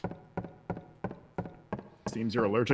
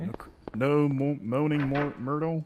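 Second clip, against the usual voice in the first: whispering. Pretend. Ghost joke in bathroom.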